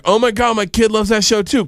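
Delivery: high, excited imitation of fans; gushing strippers. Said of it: "And they're like".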